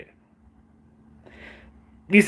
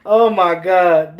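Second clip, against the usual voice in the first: laughing disbelief; 4 dB louder, much slower than usual. Real, not acted. Cracking up at the quote.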